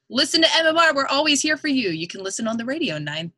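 bright, punchy station promo read; upbeat radio DJ plug. Acted. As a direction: sell the station like a DJ on air.

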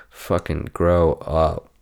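slow drawn-out scold; slow mock scold. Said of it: "I had to do it".

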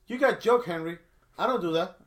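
a hint of her broken English; woman's voice. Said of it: "And she goes".

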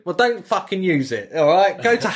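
mock angry yell. Captain yelling at crewmate.

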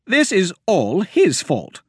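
high, loud, resentful accusing; bitter high complaint; angry blame. A narrator's reading. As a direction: point the finger at him. Myra blaming Wilmer angrily.

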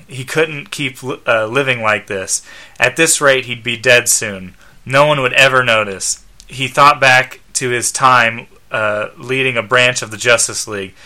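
measured read-aloud narration; story narration. A narrator's reading. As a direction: narrate the scene plainly, ends of sentences falling. Reads the comic story aloud.

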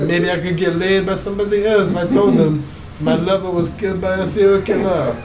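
mock French accent, cheeky and laughing at the end; a playful French accent, giggling at the punchline. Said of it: "Your French accent is on, on point".

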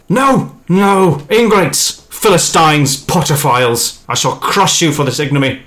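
high shouting evil wizard; feeble old man voice. Acted. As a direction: rant like a villain, high and loud. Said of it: "that sounds like feeble old man".

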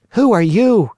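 put-on high, loud puppet boy voice; jerky creaky wooden puppet. A narrator's reading. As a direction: call it out like a startled marionette. Pinocchio asks the glowing insect.

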